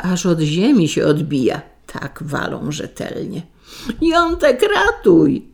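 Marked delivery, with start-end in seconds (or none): 4.0-5.5 high-pitched storybook shriek; screaming for help. A narrator's reading. Beaten wife begging husband for rescue, screaming. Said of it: "wrzeszczy w niebogłosy".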